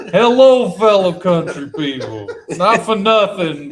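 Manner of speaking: put-on hammy Brooklyn New York accent. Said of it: "my doing a New York accent".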